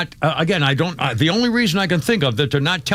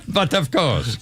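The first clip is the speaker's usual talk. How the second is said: put-on French accent; slower than usual. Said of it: "How can you laugh in a French accent".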